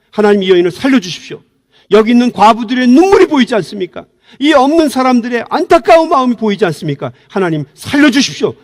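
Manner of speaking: loud, high earnest plea to God; voiced fervent prayer; pleading prayer. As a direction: beg God to spare her. Peter's imagined pleading prayer.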